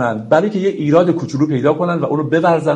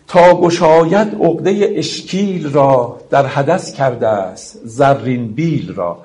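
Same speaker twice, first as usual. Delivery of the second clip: slow, measured verse reading; poem recitation; slower than usual. Acted. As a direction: recite the couplet with drawn-out syllables. (شعرخوانی آهسته و کشیده)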